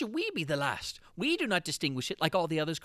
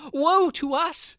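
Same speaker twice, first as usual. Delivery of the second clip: slow, loud and higher wail; slow anguished cry; 8 semitones higher, 10 dB louder, much slower than usual. Acted. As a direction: draw out the doom. Narrator's despair at enslavement.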